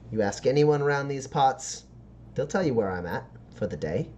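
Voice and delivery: lightly voiced backstreet dealer; Roxy, street dealer. Dealer telling a short-of-cash buyer where to return, lightly voiced pitch. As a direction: leave the buyer an open invitation.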